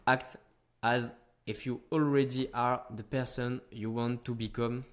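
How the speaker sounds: put-on slow, deliberate English with a French accent. Quoting Tony Robbins to his audience, in slow French-accented English. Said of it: "avec mon accent anglais encore une fois".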